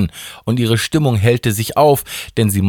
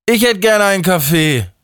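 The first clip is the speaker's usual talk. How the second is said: murmur; 12 semitones higher than usual. Acted. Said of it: "murmelte der Justus".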